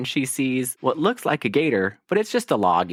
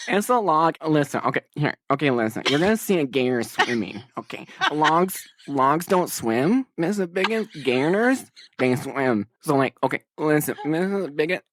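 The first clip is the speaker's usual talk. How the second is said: put-on drunk southern accent. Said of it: "a little bit drunk 'cause she's trying to do a southern accent".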